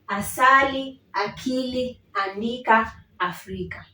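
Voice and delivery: Asali akili andika Africa in a row, fading; word review. Shown as a demonstration. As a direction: run through the four words. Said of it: "go through them one more time".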